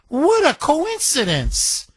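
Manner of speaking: What a coincidence, sung out high and slow in a put-on voice; hammed-up sarcastic astonishment; mock amazement. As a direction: stretch out What a coincidence in wide-eyed fake wonder. Mocking repeat of own remark.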